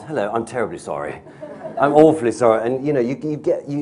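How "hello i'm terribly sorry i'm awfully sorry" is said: Hugh Grant. Acted. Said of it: "if I do the Hugh Grant".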